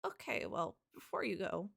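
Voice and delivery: toned-down voice for the character; corrected character voice. Acted. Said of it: "wait, I did the wrong voice".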